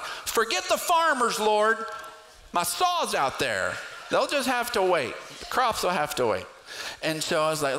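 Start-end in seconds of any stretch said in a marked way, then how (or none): 0.0-6.5 high, whiny, self-serving plea; mock selfish prayer. Pastor mocking his own prayer for his saw, high whine. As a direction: pray like a spoiled child who wants his way. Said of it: "I'm like".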